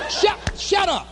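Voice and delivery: high, stammered retort; mock exasperation. Speaker answers heartbreak in hotel room, exasperated. Snaps back at loneliness and heartbreak.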